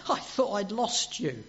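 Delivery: clinging in joyful disbelief; mild, imagined Mary, overjoyed; Mary's overwhelmed cry. Retold or imitated. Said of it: "it's almost like she's saying".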